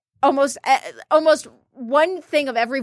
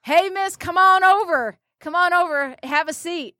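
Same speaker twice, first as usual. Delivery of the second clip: higher, drawn-out southern cowboy invitation; southern accent; 4 semitones higher than usual. Retold or imitated. Cowboy inviting her to sit, southern accent. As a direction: lightly imitate a southern cowboy calling out. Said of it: "in his little southern accent".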